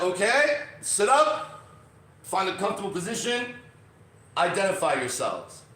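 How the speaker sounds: brisk announcement to a seated group, lightly imitated; instructor giving commands. Voices the instructor starting class.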